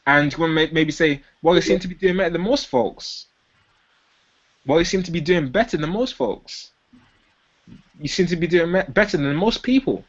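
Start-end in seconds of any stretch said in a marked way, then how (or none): 1.4-3.3 slightly optimistic. Shown as a demonstration. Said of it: "sound slightly optimistic". 4.6-6.7 slightly optimistic. Shown as a demonstration. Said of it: "sound slightly optimistic".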